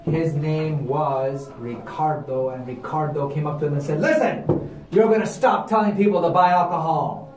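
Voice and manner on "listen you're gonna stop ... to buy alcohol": stern threat. Acted. Ricardo threatens the missionaries.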